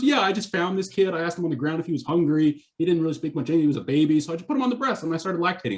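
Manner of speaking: sarcastic retort. Retold or imitated. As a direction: imitate mum's sarcastic comeback. Mother's sarcastic reply to adoption question.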